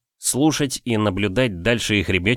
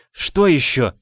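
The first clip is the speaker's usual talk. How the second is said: annoyed; 5 semitones higher, 3 dB louder, slower than usual. Acted. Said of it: "раздосадованно бросила через плечо".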